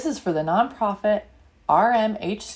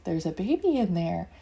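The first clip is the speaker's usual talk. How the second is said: hushed; 5 semitones lower, 5 dB quieter than usual. Acted.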